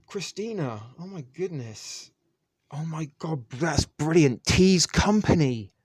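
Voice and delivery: high, loud, thrilled gush over a great find; delighted. Real, not acted. Host gushing to a viewer about her thrift find, thrilled and loud. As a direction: squeal with real delight at the gift.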